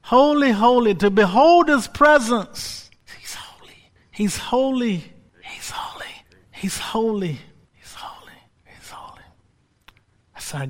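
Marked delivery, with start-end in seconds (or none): 0.0-9.2 hushed whispers in awe; whispered worship. Real, not acted. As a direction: breathe it out reverently.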